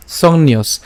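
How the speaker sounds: "সংন্যস" ending on a bare s; closed final s. Shown as a demonstration. Teacher shows the hasanta in "সংন্যস", stopping on s. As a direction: say "সংন্যস" with no vowel after the s. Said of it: "এই দন্তস্ব হসন্ত পর্যন্ত উচ্চারণ করলাম".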